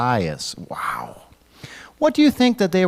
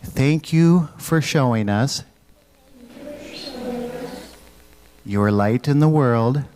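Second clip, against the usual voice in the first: prayer lead-in; slower than usual. Shown as a demonstration. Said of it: "Will you say a prayer with me".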